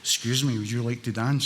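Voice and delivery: a light hint of a suave Scottish charmer; lightly voiced smooth pickup line; understated movie-star charm; Sean Connery. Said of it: "my best Sean Connery".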